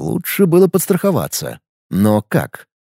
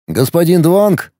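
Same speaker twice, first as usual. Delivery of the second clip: suspicious; 3 semitones higher, slower than usual. Acted. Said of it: "с подозрением спросил Алекс".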